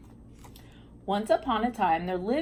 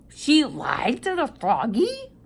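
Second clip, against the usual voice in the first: mock shock; 4 semitones higher, 4 dB louder than usual. Shocked that princess lied.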